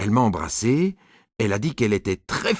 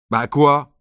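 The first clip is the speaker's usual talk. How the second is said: louder, pushy schoolboy challenge; a boy's retort; 4 semitones higher, 5 dB louder than usual. Acted. Alceste asks Nicolas why he is leaving, louder and challenging. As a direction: toss it back like a jealous classmate.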